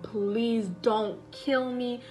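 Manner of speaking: slow, mild mock plea; retold begging. Wife on her knees begging her husband, slow understated plea. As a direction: plead it slowly, without much force. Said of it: "started begging".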